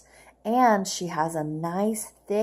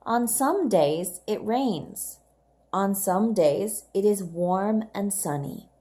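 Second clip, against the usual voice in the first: put-on reading aloud to children. Shown as a demonstration. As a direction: read it clearly for young learners. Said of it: "let's read together the first time".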